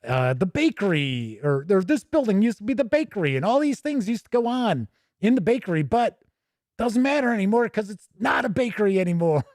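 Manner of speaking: high, brisk parody of filler writing; hammed-up fussy adventure prose; mocking padded module text. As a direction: read it like a pointless room description. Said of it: "role-playing games where it's like".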